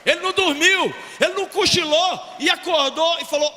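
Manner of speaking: loud, rising sermon, hammering each claim; fiery preaching. Real, not acted. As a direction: preach it to the whole congregation. Preaching at full force.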